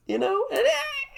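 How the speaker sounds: real laughter breaking the words; laughing. Real, not acted. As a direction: crack up mid-sentence. Laughing through the tattoo story.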